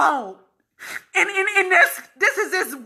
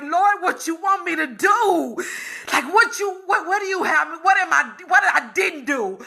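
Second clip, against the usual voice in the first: retold shout to God. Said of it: "I screamed that out".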